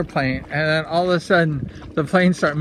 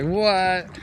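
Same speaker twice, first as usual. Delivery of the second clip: higher-pitched, drawn-out mock disbelief; retold freak-out; 5 semitones higher than usual. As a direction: act out a stunned "what". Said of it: "I was freaking out".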